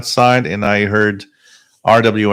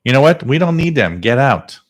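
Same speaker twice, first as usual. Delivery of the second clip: heated, higher-pitched dismissal; angry; 4 semitones higher than usual. Real, not acted. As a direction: kick the ranters out. Telling ranters to leave.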